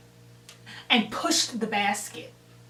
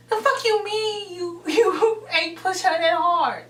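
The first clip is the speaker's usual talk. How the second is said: higher-pitched acted disbelief; retold indignant challenge; 8 semitones higher, 3 dB louder than usual. Friend challenging the pusher's excuse, indignant. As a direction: throw the excuse back, indignant.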